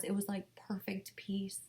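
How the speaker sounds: soft awed whisper; hushed whisper. Real, not acted. Describing perfect peace.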